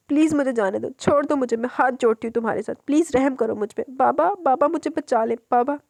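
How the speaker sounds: frightened pleading. Acted. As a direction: beg him to let her go, calling for baba. Woman begging her attacker. (डरी हुई, गिड़गिड़ाती हुई पुकार)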